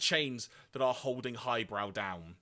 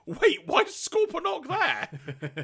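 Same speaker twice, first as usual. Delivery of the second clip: Chrome Dome; 5 dB louder, slower than usual. Retold or imitated. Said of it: "even Chrome Dome went".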